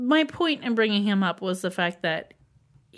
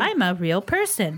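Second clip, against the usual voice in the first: mock Chef John cadence. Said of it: "Chef John talks so".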